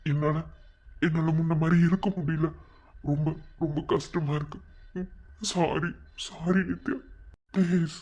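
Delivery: halting plea through tears; crying apology with long pauses; tearful pleading. Acted. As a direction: beg forgiveness while starting to cry. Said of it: "எதுக்குடா அழுகுற?".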